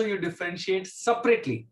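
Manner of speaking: "separately" set apart and emphasized; stress on separately. Real, not acted. Teacher warning students how to differentiate numerator and denominator, stress on "separately". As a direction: lean firmly on the word "separately". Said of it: "I'm putting emphasis on the word separately".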